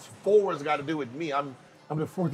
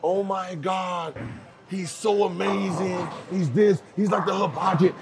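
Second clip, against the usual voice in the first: mock hype; 3 semitones higher than usual. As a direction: gush like hyped fans. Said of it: "they're just pumping me up".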